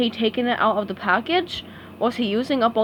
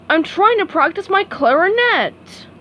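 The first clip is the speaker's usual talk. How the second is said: Squidward voice; 8 semitones higher, 5 dB louder than usual. A narrator's reading. Squidward annoyed at neighbours.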